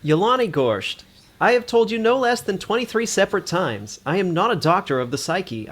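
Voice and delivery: put-on a drifting Australian accent, half Boston; doctor scolds a patient, slipping from Australian into Boston accent. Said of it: "this Australian is turning Boston".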